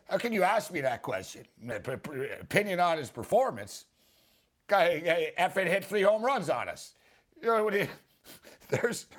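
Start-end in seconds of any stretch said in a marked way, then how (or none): 0.1-6.9 imitating Lasorda. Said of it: "I love what he says".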